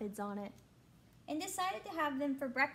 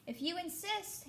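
light, higher sweet voice; sweet ladybug voice; 5 semitones higher than usual. Acted. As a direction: answer sweetly, unbothered. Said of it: "answered the friendly ladybug sweetly".

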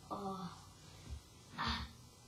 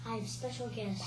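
whispering. Acted. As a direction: announce it in a whisper. Whispering the announcement.

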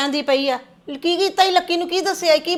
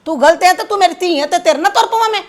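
loud, sharp telling-off; angry scolding; 3 semitones higher, 5 dB louder than usual. Acted. Mother loudly scolding her daughter-in-law to stop talking back. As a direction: shut her up with a raised voice.

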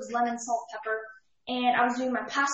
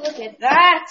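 excited; 4 semitones higher, 14 dB louder, slower than usual. Real, not acted. Sees the finished Wellington.

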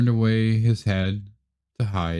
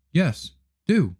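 high, curt hen; 7 semitones higher than usual. Acted. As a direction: dismiss him like a hen. Hen answers.

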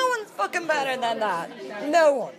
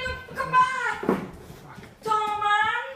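pleading cry; 10 semitones higher, slower than usual. Real, not acted. Begging date to come back.

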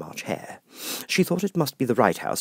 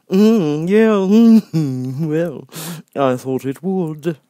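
grinning Cheshire Cat; 8 semitones higher, 9 dB louder, much slower than usual. Acted. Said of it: "said the cat".

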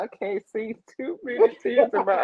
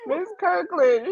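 high call; 11 semitones higher than usual. Acted.

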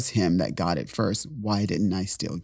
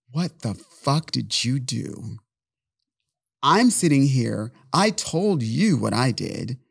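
raised, slow, angry accusation; louder and higher, confronting him; angry rant; 5 semitones higher, 4 dB louder, slower than usual. Retold or imitated. Yelling at the boyfriend who hid his infection. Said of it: "I got so angry".

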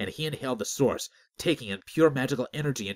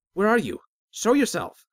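loud, high-pitched challenge; shouted demand to come out; 12 semitones higher, 9 dB louder than usual. A narrator's reading. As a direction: call out forcefully to someone unseen. Startled man challenges an unseen voice.

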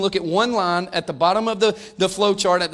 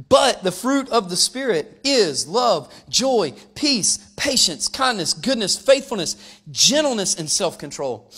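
scripture reading; slower than usual. Acted. Reads scripture verse.

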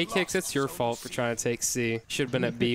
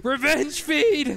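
very slow, higher and louder shout; higher drawn-out battle cry; 11 semitones higher, 4 dB louder, much slower than usual. Acted. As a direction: push the war cry up even higher. Repeats battle cry, even higher.

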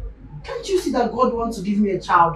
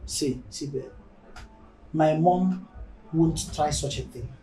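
soft, lowered voice; reassuring; 4 semitones lower, 6 dB quieter than usual. Acted. Spouse reassuring babe about mom, quiet and calm. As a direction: gently talk your partner round.

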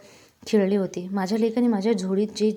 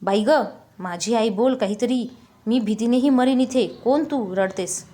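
a mildly raised, pleading call; slightly louder, urging the crying woman to speak; a touch of raised voice at a stranger; 3 dB louder than usual. Retold or imitated. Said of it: "शेवटी आवाज चढवला".

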